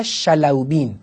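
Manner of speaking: careful scholarly pronunciation of شلوبین; correct pronunciation. Shown as a demonstration. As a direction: say شلوبین as Shalawbin, each syllable clear. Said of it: "درسته شلوبینه".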